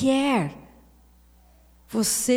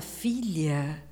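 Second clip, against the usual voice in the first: voicing God as father; 2 semitones higher than usual. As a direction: call her in gently, then lift it. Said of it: "Deus fala". (Deus como pai chamando a filha, voz um pouco mais aguda)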